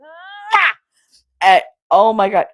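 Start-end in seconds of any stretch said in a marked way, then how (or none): 0.0-0.7 high exaggerated "mwah" noise; big mock kiss sound, pitched high; imitated smacking kiss. Showing how someone plants a noisy kiss, exaggerated smack. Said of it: "does that real smacking kiss".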